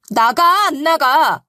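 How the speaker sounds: wife ordering sister-in-law out of the house; fierce ordering. Retold or imitated. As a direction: drive her out the door. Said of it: "거세게 몰아쳤어요".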